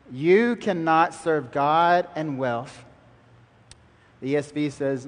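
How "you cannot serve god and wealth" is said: "You cannot serve God and wealth" said slowly, each word weighted; emphatic verse. Acted. Preacher asks the congregation to look with him, slow emphasis. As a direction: drive "You" home, then slow through the rest. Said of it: "look at it with me".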